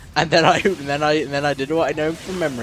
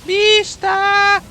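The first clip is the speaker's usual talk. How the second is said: loud high shout; 6 dB louder than usual. Acted.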